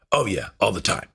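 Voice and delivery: mock-cool boast, tossed off; cocky. Son imitating dad's boast about girls, cocky and offhand. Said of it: "very cocky way".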